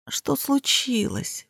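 slow, soft drowsy mumble, dropping at the end; sleepy mumble. A narrator's reading. Woken narrator mumbling to her friend, slow and drowsy. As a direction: mumble it half asleep, slowly. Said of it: "пробормотала я".

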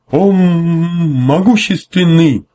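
high, slow, booming formal address; pompous officer. Acted. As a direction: draw out the grand greeting. Officer hails the admiral pompously.

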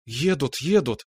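eager cry of arrival; excited shout that they're here; exclaiming. A narrator's reading. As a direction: call it out, excited. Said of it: "воскликнула Наташа".

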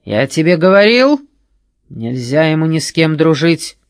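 sinister voice. A narrator's reading. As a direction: list his failures ominously. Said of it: "зловещим голосом".

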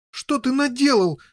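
high, loud horrified outcry; exclaim. Acted. Boy crying out at brother's killing. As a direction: cry out in shock. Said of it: "воскликнул Гаррет".

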